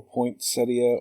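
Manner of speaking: poinsettia in four syllables, poynt-SET-ee-uh; poinsettia pronounced "point-SET-ee-uh"; poinsettia ending in -ia. Shown as a demonstration. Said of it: "However you pronounce it".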